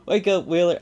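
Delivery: put-on half-hearted villain taunt, no real accent; reading villain lines. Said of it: "not even trying to do an Australian accent".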